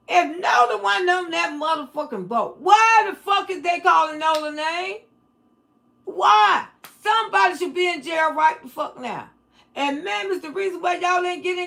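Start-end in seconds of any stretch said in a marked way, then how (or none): 0.1-9.3 angry shouting. Real, not acted. Ranting at the family about Nolan, shouting angrily. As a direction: shout the outrage at them. Furious rant about the boy.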